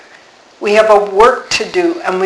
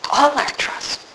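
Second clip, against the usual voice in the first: "All" set apart, soft and higher; stress on ALL; 6 semitones higher, 6 dB quieter than usual. Shown as a demonstration. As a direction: lean gently on "All" in a hushed voice. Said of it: "the emphasis is on the word all".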